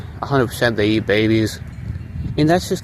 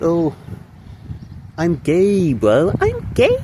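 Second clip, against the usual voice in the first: mocking high voice; 7 semitones higher, slower than usual.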